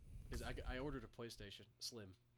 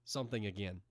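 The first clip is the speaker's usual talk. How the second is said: louder, nasal mimicry of friend; too nasal imitation; 3 semitones lower, 6 dB louder than usual. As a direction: echo it a little nasally. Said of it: "you went a little too nasally".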